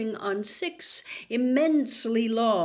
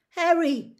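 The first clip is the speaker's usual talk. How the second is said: loud call; shout; 8 semitones higher, 6 dB louder than usual. A narrator's reading. Ron calling Harry toward the light, shout. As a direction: call out with relief. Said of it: "Ron shouted".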